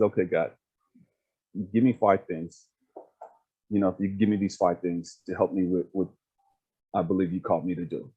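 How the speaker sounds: low, measured plea to God; retold prayer, pitched low; earnest prayer. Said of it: "I was talking to God one day".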